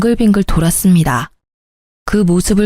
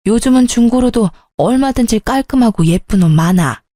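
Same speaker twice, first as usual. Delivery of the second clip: ordinary talk, nothing marked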